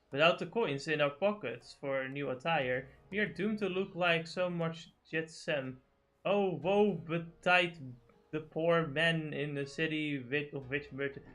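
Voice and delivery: slow, mildly mock-archaic reading; game dialogue read-aloud. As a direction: draw out the old-fashioned lament slowly. Reads overwritten game dialogue.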